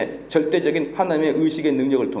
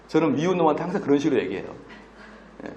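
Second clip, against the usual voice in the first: ordinary talk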